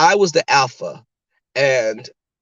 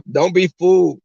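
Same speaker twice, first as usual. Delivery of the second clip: raised, emphatic mock warning; imitated warning; 4 semitones higher, 4 dB louder, slower than usual. Ex warning her friends about her, emphatic warning. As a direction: drag out the insult in imitation.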